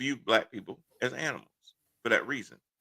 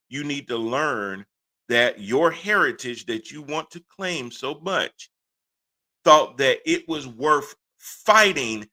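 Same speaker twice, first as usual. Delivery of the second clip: slow, rising, louder plea; impassioned; 3 semitones higher, 4 dB louder, slower than usual. Real, not acted. Scolding flag defenders with slow rising passion. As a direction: drive home each word with rising passion.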